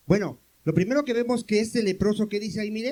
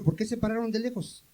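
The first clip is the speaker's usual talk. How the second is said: normal talking voice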